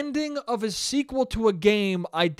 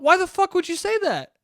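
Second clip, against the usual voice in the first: retold outrage; 11 semitones higher, 3 dB louder than usual.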